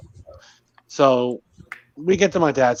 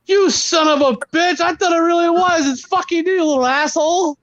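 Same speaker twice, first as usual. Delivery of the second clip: astonished dad. Retold or imitated. Dad finding his kid on the porch, astonished. Dad opens door, finds surprise.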